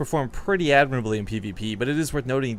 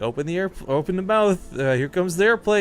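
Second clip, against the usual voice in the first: put-on feeding a baby; 6 semitones higher than usual. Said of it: "You learn that alongside with, like".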